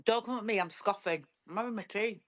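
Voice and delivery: talking through a mouthful; eating while talking; mouth full. Real, not acted. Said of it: "Got your mouth full again?".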